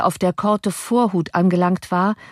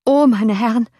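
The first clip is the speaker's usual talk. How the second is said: higher, alarmed call; coachman's exclamation; 5 semitones higher, 4 dB louder than usual. A narrator's reading. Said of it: "rief der Kutscher". (ausrufend, mit höherer Stimme)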